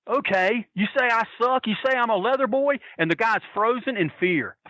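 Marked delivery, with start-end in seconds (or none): 0.1-2.8 retold menacing challenge. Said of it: "and he goes".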